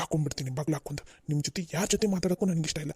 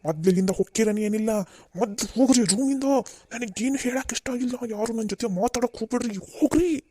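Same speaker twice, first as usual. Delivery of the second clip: angry dismissal; 3 semitones higher, 4 dB louder than usual. Acted. Father shouts family away.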